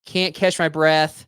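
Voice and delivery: slow, drawn-out mock dying plea; milk each word like a melodramatic victim; hammed-up dying caller. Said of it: "and you're gonna say what?".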